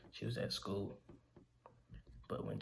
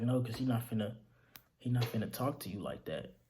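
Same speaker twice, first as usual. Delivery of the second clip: retold yelling; 3 dB louder than usual. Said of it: "she started yelling at him".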